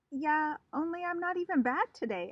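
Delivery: high, loud nervous protest. Acted. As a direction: blurt it out, scared of trouble. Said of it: "very nervous".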